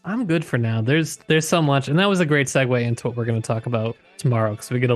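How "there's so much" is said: normal talking voice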